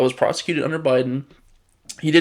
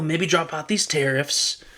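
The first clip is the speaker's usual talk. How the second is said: lightly voiced pleading foreign leader, higher; a hint of a wheedling negotiator offering a deal; half-hearted mock plea for a deal; mock dealmaker voice; 4 semitones higher, 3 dB louder than usual.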